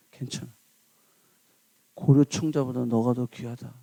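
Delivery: low, soft, tender father; father holding his son, soft and low; tender forgiveness. Retold or imitated.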